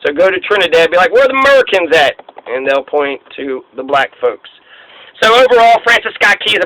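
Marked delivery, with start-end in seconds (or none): 1.1-2.2 higher, curious tourist asking around. Retold or imitated. Visitor in Trinidad asking the locals, pitched up and curious. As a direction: ask like a lost visitor, pitched up.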